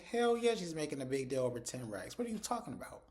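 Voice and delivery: fired-up fan yelling at the TV; emphatic retort. Retold or imitated. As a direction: talk back at the screen. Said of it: "I said".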